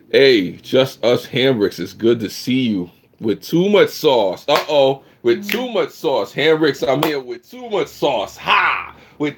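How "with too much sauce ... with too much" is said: hyped catchphrase. Acted. Catchphrase repeated as a chant.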